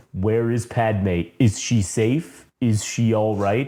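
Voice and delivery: slow, low, lightly voiced Vader; a hint of worried Vader, slowly; Vader asking. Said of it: "goes back to the end scene".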